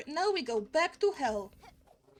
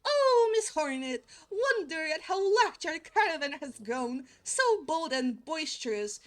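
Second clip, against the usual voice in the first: a hint of a pompous old caravan leader addressing Hornet; loosely acted flea leader reading his lines; put-on flea leader voice; 3 semitones higher than usual. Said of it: "what kind of voice should I have for this guy".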